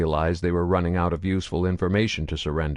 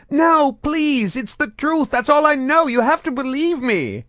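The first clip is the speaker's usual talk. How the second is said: high, loud panicked begging; desperate screaming plea; 6 dB louder than usual. A narrator's reading. Tortured Batarian begs Saren to believe him. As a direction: beg through the pain.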